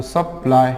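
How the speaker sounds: सप्लाई split as सप-लाई; break between syllables. Shown as a demonstration. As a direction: put a short break inside सप्लाई after सप. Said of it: "यहाँ पे break करना है".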